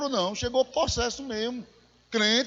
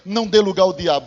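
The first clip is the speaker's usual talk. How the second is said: emphatic verse quote; 3 semitones lower, 7 dB louder than usual. Retold or imitated.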